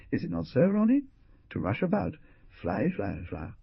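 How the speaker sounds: lightly voiced madame aping a clumsy girl; mocking gaucherie. A narrator's reading. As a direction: mimic a flighty girl rushing about. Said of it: "Her representation of gaucherie was inimitable".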